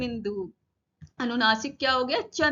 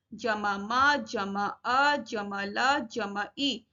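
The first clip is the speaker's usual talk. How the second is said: slow spelling of इमली, each sound apart; measured classroom spelling-out; sounded out separately; 3 semitones lower, much slower than usual. Shown as a demonstration. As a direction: recite it slowly, piece by piece. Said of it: "अलग-अलग करके लिखना या पढ़ना".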